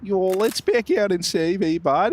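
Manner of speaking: a mock Canadian accent drifting Australian; a hammed-up Canadian that comes out Australian; Australian-sounding accent. Shown as a demonstration. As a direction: put on a twangy accent, asking "eh, bud".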